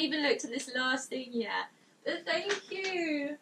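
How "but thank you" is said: slow, softer, tearful thanks; a little tearful. Real, not acted. Streamer thanking a fan for gifts, a little tearful. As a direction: let happy tears into a drawn-out thanks. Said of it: "We are crying a little bit".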